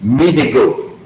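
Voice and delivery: "Me de go" with the weight on "Me"; "Me" brought out, "de go" following lightly; emphatic stress on ME. Shown as a demonstration. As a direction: lean on "Me" to single out the speaker. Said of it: "you have to raise your voice".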